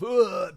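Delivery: comic vomit noise; mock retching. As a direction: imitate throwing up. Mimes vomiting alone in room.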